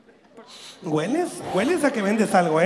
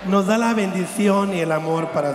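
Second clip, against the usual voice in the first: a hint of a church sermon, hands raised; mock preacher. Joking about naming God Iker, a mock preacher's blessing. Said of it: "Imagínate que así le hubieran puesto a Diosito".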